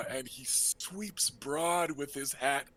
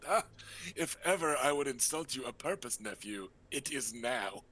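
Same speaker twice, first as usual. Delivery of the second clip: lightly raised, breezy uncle voice; flamboyant uncle. Acted. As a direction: play the charming rogue host.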